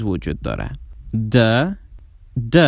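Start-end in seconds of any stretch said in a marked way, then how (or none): 1.3-2.6 a clearly buzzing, voiced "د" on its own; voiced d sound. Shown as a demonstration. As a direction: hold "د" so the throat vibrates. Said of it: "که یک صدای وایست هست".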